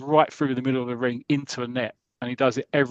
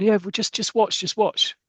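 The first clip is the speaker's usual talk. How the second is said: high, slow coaxing just watch; insistent coaxing; 8 semitones higher than usual. Retold or imitated. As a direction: talk him into waiting, drawn out. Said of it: "And they're going".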